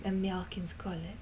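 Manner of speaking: unvoiced whisper to herself; whispered aside. Real, not acted. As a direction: whisper it under your breath.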